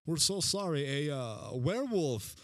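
lightly voiced Italian pizza guy; apologetic pizza clerk. Pizza clerk tells late customers about the werewolf, light Italian. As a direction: sell the werewolf excuse with a hint of Italian. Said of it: "we'd be like".

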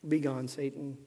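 low, soft and unforceful; understated, toothless command; soft, mild reading. Shown as a demonstration. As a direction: say it meekly, with no force at all. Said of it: "You think that's how he said it?".

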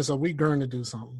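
"gonna" with an r-coloured vowel, like "gurn-uh"; Virginia pronunciation. Shown as a demonstration. Friend showing how Virginia talks, "gonna" said as "gurna". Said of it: "like, I'm Virginia".

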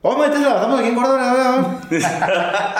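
fast, high Oaxacan worker; Oaxacan accent. Retold or imitated. Worker telling the trucker to unload in Córdoba, fast Oaxacan accent. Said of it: "Ay, los oaxaqueños".

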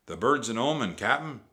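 moderately shouted pirate warning; alarmed shout. A narrator's reading. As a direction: call a warning to your captain. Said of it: "shouted Stinky".

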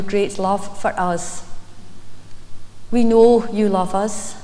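earnest, measured church prayer. Acted. Leads an opening prayer.

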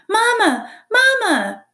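put-on tiny high-pitched baby bird cry; peeping gosling. A narrator's reading. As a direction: peep loudly like a hungry hatchling. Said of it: "peeped the gosling".

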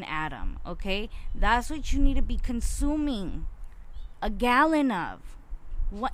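loud, heated ranting; real frustrated lecture; worked-up rant. Real, not acted. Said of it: "I don't know why I'm talking like that".

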